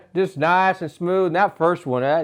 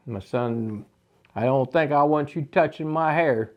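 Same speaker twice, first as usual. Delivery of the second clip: stern dad; 6 semitones lower, 4 dB quieter than usual. Retold or imitated. Dad voiced in story.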